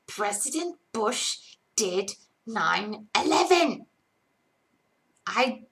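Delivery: slow, put-on British accent. Shown as a demonstration. Streamer says the requested conspiracy line, mock British accent. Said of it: "in a British accent".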